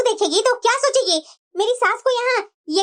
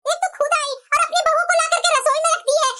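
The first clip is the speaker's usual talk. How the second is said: indignant, raised-pitch grumbling; angry complaint; 4 semitones higher than usual. Acted. Daughter grumbles to her mother about the aunt's daughter-in-law, angry complaint. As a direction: complain crossly to your mother. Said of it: "इतना गुस्सा क्यों हो रही है?".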